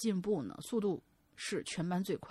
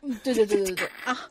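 ordinary talk

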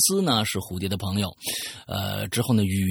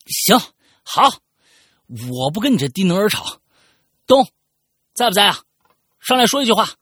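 much higher, louder fed-up shouting; exasperated outburst; 12 semitones higher, 8 dB louder than usual. Acted. Fed-up friend ends the fight and loudly calls Dong for help. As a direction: blow up and call for backup.

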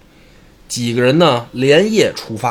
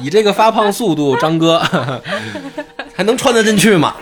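amused, higher-pitched talk broken by laughs; laughing; 8 semitones higher than usual. Real, not acted. Joking with co-host about the old wedding dress, laughing. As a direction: ask it through your own laughter.

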